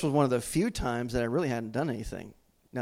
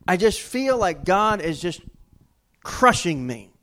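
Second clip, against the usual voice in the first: louder, higher griping to his wife; complaining loudly; 3 semitones higher, 6 dB louder than usual. Retold or imitated. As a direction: vent it, aggrieved and loud. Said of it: "I told her, I said".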